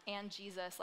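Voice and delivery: offhand. Retold or imitated. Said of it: "like it was nothing".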